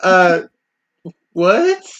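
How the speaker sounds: extremely confused, baffled voice pitched very high. Voicing a character reacting in extreme confusion. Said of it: "Just extreme confusion going".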